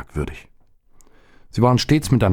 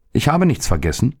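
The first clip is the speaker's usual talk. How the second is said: put-on boy voice; 6 semitones higher than usual. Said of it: "sagte der Junge und ballte seine Fäuste".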